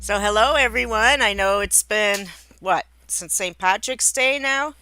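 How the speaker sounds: loud, high greeting, almost shouting; yelling. Real, not acted. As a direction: belt out the hello far too loudly. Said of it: "why am I yelling?".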